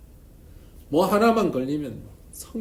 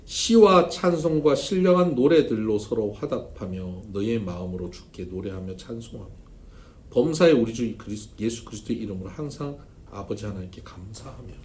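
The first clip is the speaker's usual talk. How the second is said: scripture reading; 2 semitones lower, 4 dB louder than usual. Acted. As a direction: read the verse with reverence. Reads scripture. (성경 본문을 천천히 엄숙하게 낭독)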